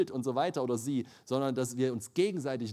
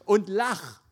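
higher, louder nudge to laugh; wife's playful command; 5 semitones higher, 8 dB louder than usual. Retold or imitated. Wife urges her sulking husband, higher and louder command. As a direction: push him to laugh, half teasing. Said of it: "sagt sie zu mir".

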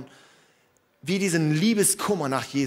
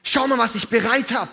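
inviting; 5 semitones higher than usual. Pretend.

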